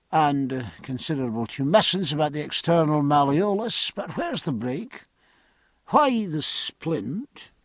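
lightly voiced, hesitant medical man; puzzled surgeon's assistant. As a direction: query the senior doctor, puzzled.

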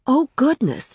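startled, high-pitched gasp of words; taken aback, pitch leaping up; involuntary exclamation. A narrator's reading. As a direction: let it slip out in surprise. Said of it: "she said involuntarily".

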